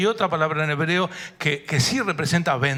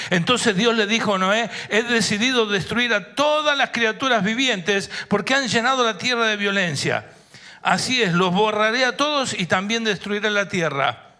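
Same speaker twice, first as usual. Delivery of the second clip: raised, high-pitched scripture reading; forceful pronouncement; 7 semitones higher, 4 dB louder than usual. Acted. Preacher reading God's decree of destruction to the congregation, forcefully. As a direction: proclaim the judgement with force.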